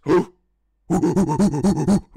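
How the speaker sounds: loud, high, forced ooh; forceful monkey hoot. Shown as a demonstration. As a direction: push the hoots out hard. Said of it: "back in with a bit more force".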